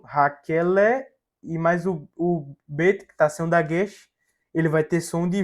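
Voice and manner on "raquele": "raquele" slowly, syllables drawn out; syllable-by-syllable reading. Shown as a demonstration. Teacher building the Hebrew word for students, syllable by syllable. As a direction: sound out "raquele" slowly for learners. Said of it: "o lamed mais o segolo".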